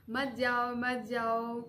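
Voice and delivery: lightly imitated childish insistence; childlike pleading. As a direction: plead a little like a stubborn kid. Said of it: "बच्चों की तरह जिद करती हूँ".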